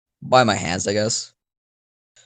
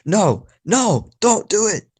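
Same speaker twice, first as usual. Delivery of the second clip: high-pitched pleading wail, acted; mock crying; 12 semitones higher, 4 dB louder, slower than usual. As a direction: play at crying out in protest. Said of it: "I'm crying on the background".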